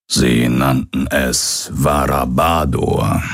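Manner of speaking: slow, lightly voiced old pirate; name it slowly and gravely, a hint of old pirate. Old pirate names the plague. (langsam, leicht angedeuteter alter Pirat)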